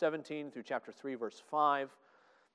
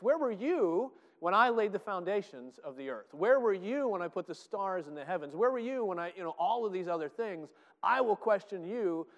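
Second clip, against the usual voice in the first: thundering God; 5 semitones higher, 4 dB louder than usual. Acted. God challenging Job, booming.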